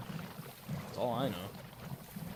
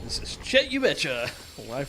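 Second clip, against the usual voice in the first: news reporter quote; 3 semitones higher, 5 dB louder than usual. Retold or imitated. Gamer quoting a cartoon reporter, loud newsman voice. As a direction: announce it like a TV newsman. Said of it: "Fucking Chet You Betcha".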